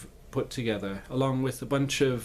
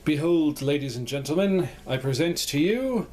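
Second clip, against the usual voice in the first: grand presentation; 4 semitones higher than usual. Acted. Grand reveal of house.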